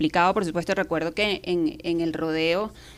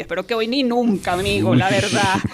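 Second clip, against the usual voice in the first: retold anxious pleading; 3 semitones higher, 5 dB louder than usual. Interviewer answers a menacing killer, retold loud anxious pleading. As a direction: plead your case in mock panic.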